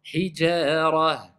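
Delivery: HIJARA drawn out slowly, ending in a breathed H; audible final H. Shown as a demonstration. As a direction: let Hijara finish on an audible "h". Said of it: "On entend le ha".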